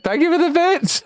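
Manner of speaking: squeaky high voice; helium voice. Shown as a demonstration. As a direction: talk like you inhaled helium. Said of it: "a helium voice".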